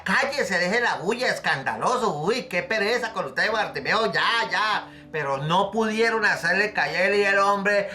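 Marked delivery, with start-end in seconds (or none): 0.0-4.9 annoyed shushing. Retold or imitated. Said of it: "la gente le decía".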